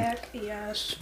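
breathy ASMR whisper. Pretend. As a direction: whisper it into the mic. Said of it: "us whisper".

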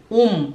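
Um with lips fully closed on the m; German um. Shown as a demonstration. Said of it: "e não um". (Um com lábios fechados)

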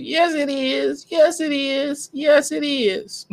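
slow, high, stretched-out chant; slow sing-song mimicry; slow drawn-out quote. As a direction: draw each word out teasingly. Quoting a clip, drawn out.

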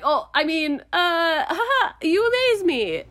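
man covering a slip to his crush, flustered laugh; flustered backpedal. Retold or imitated. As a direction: laugh it off after saying too much. He didn't mean to say it.

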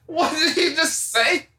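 high, shocked question; shocked disbelief. Retold or imitated. Retold shocked reaction.

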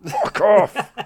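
high, loud "Fuck off!" half laughing; exasperated outburst. Retold or imitated. Dad stuck behind slow mum, laughing exasperated shout. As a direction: blurt it out at the end of your rope. Frustrated dad on school path.

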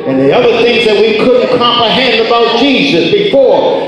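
ringing, rhythmic revival preaching; full-force preaching. Real, not acted. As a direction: preach it out with conviction.

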